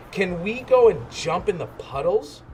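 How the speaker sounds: put-on a child pleading to play; Peppa's voice. Little Peppa begging her mummy, eager and high.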